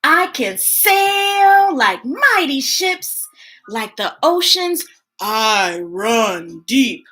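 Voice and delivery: slow, drawn-out read-aloud; story reading. Acted. Host reading a picture book to kids, slow. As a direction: read it slowly to children.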